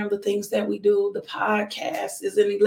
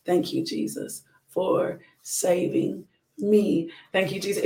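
guided prayer. Acted. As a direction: lead them gently through the prayer. Leads the salvation prayer.

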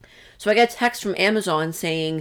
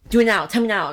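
mild demanding; 4 semitones higher, 5 dB louder than usual. Retold or imitated. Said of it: "he was trying to get, like, aggressive".

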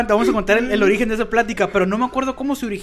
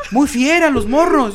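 slow, louder sarcastic drawl; sarcastic teacher; 5 semitones higher, 6 dB louder, slower than usual. Retold or imitated.

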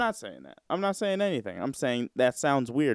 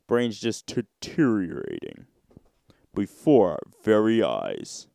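half-whispered; 3 semitones lower than usual. Real, not acted. Joking about forgetting.

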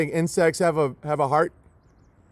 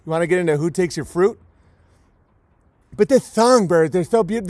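ordinary delivery

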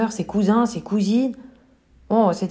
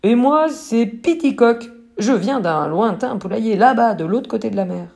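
petit coq; 2 semitones higher than usual. Acted. Piticoque se présente.

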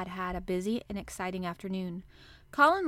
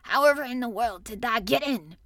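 louder, incredulous dialect question; overpowered by curiosity; 6 dB louder than usual. A narrator's reading. Gardener demanding how Mary got in, incredulous. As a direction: burst out with the question. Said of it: "he was overpowered by curiosity".

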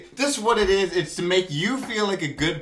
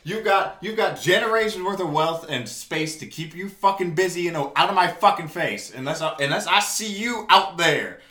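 angry rant. Real, not acted. Ranting at celebrity Skype calls, angry. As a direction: tear into celebrities, fed up.

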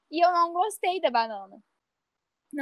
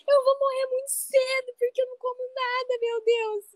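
higher, lightly whiny retold despair; mock desperate crying; 10 semitones higher than usual. Retelling to friends how she cried to her friend, mock despairing. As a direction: replay the meltdown, half-joking. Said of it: "eu comecei a chorar desesperada".

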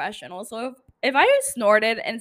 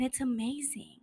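whispering; 8 dB quieter than usual. Real, not acted. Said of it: "I don't know why I'm whispering".

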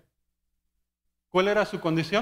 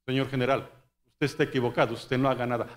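lower-pitched mock sergeant; imitated sergeant; 6 semitones lower, faster than usual. Sergeant telling the general he is wrong, mock role voice.

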